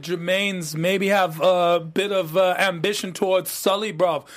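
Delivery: reviews the plot in a hammed-up London roadman accent; put-on London roadman accent. Cohost recaps the plot in a put-on London roadman accent. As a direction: keep up the London roadman slang. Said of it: "this accent you're giving me".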